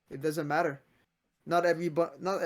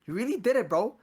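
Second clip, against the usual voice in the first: excited praise; 4 semitones higher than usual. Retold or imitated. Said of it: "people were like".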